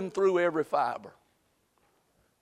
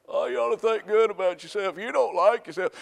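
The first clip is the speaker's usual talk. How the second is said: mock self-esteem; 3 semitones higher than usual. Mocking the world's self-esteem talk.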